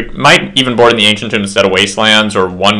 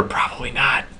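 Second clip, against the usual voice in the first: whispering; 2 semitones higher, 12 dB quieter than usual. Real, not acted. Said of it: "Can you hear me whisper?".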